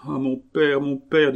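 high, stricken cry to the father; tearful plea. A narrator's reading. Young woman to the monk who visits her, tearful plea. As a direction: plead as if bursting into tears. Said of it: "dit-elle en fondant en larmes".

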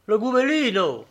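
high, alarmed exclamation; name the apparition with a touch of dread; awed alarm. A narrator's reading. Postilion naming the apparition to the traveller, mildly alarmed.

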